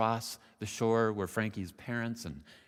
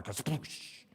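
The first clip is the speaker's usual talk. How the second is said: drawn-out airy kasploosh; imitated splash; 4 semitones higher than usual. A narrator's reading. Storyteller imitates the frog hitting the water, splash noise.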